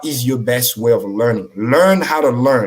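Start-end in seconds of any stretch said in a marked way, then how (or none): 1.6-2.7 "Learn how to learn" said slowly, each word weighted; slow emphatic maxim. Shown as a demonstration. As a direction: drive the motto home word by word. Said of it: "Let me say it again".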